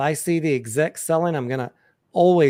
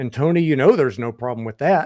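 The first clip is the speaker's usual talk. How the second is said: heavy, all-out, full-on sarcastic delivery. Retelling what a friend's husband said: imitating a sarcastic voice. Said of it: "in his full sarcasm voice".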